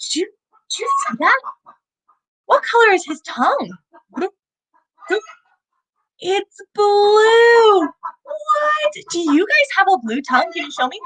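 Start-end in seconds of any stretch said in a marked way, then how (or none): 0.1-7.8 put-on breathy, secretive whisper to the kids; hushed whisper. Showing the lizard to kids. 7.8-8.9 high, squeaky exaggerated what; playful fake shock; mock surprise. Mock amazement at blue tongue.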